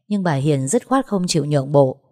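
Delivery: ordinary delivery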